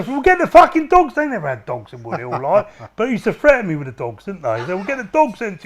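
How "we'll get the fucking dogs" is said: imitated guard threat; mock guard threat. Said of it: "They used to".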